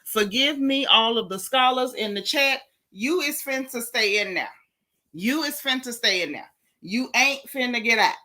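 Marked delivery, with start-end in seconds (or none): 2.9-4.5 Ocala vernacular. Shown as a demonstration. To the chat, Southern Ocala vernacular delivery. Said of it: "I'ma say it in my Ocala vernacular". 5.1-6.5 Ocala vernacular. Shown as a demonstration. To the chat, the Ocala vernacular take. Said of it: "I'ma say it in my Ocala vernacular". 6.8-8.2 Ocala vernacular. Shown as a demonstration. To the chat, Southern Ocala vernacular delivery. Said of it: "I'ma say it in my Ocala vernacular".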